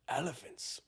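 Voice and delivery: hushed, awestruck whisper; awed whisper. Pretend. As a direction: breathe the word out in wonder. Noah awestruck at elephants.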